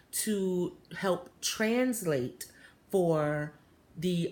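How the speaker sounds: put-on slow, careful accented English; measured, word-by-word speech with a light foreign accent; imitated foreign accent. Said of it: "he had the thickest accent".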